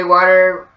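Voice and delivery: American water with a tapped T; US pronunciation. Shown as a demonstration. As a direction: say water as Americans do, "wah-der". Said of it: "people who are born in the U S say water".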